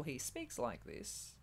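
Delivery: slow actor's voice, lightly imitated; a slowed-down, light celebrity imitation; Russell Crowe. Host showing co-host how an actor talks, Russell Crowe imitation. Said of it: "It's a very deep voice".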